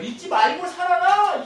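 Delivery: high, slow, loud booming command; God's command. Acted. Preacher voicing God, commanding slowly and loudly. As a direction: thunder it down as God to his people.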